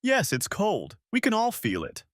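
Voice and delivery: high, put-on Chicago accent. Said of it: "May tried to imitate a Chicago accent".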